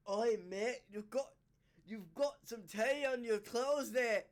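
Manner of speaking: trying out a Scottish greeting; lightly put-on Scottish accent; attempted Scottish accent. Shown as a demonstration. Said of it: "I'm half Scottish, so I'm trying".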